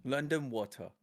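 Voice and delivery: self-conscious imitation of London English; London accent attempt. American repeating after English coach, London accent. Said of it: "I'm cringing as I say it".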